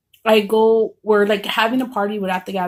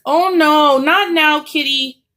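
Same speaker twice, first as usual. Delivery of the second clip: higher-pitched, louder plea to a pet; talking to cat; 6 semitones higher, 4 dB louder, slower than usual. Real, not acted. Speaker breaks off the story to put off the cat, high-pitched pet talk. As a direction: shoo the kitty off in a raised pitch.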